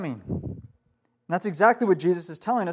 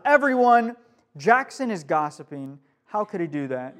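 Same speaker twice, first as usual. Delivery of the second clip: mock announcing; 2 semitones lower than usual. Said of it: "calling out to the room".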